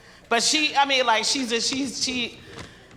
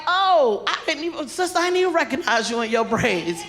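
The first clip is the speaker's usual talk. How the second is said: higher gushing surprised greeting; mock surprise; 5 semitones higher than usual. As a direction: act caught off guard by her look. Greeting a sister in braids.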